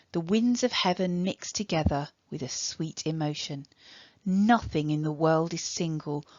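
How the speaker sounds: measured, deliberate poetry recital; poem reading. Acted. Teacher reading a love poem to Year ten, measured recital. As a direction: read it as verse, lingering on the line endings.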